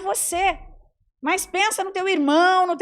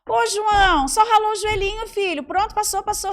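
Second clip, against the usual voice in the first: higher, louder, brushing it off quickly; brisk dismissive mother; 6 semitones higher, 4 dB louder than usual. Retold or imitated. Mother telling her crying son it's nothing, brisk and dismissive. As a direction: shrug off the scraped knee. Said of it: "João chorando porque caiu".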